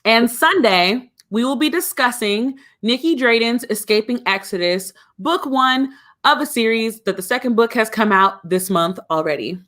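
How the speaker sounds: crisp formal cabin announcement; flight attendant voice. Acted. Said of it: "flight attendant voice on".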